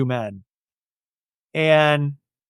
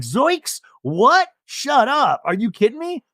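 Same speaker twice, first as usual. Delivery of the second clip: high, startled squeal of disbelief; high mock-shocked Zoinks; 7 semitones higher, slower than usual. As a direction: play it as a gasping Scooby-Doo shock. Katie's shocked reaction retold.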